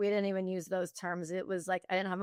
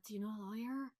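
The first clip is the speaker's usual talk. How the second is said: hushed, secretive question, as if asking around discreetly; retold whisper; 13 dB quieter, much faster than usual. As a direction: imitate whispering a confidential question very softly. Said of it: "You're, like, whispering".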